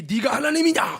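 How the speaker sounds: retold divine rebuke, thrown out loudly; the Lord's rebuke. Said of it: "그때 주님이".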